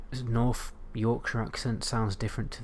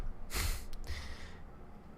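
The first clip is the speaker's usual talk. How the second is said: soft trailing laugh; chuckle; 8 dB quieter than usual. Real, not acted. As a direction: let out a quiet chuckle. Laughs after listing accents.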